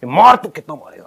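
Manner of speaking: retold loud dare. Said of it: "बहुत तेज मैं बोल रहा था".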